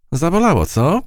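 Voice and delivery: high, gloating taunt; triumphant taunt. A narrator's reading. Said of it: "triumfował wielonogi zwierzak".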